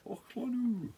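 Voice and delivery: high hammed-up weatherman hello; mock a TV weather presenter. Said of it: "about as good as your bloody Cockney accent".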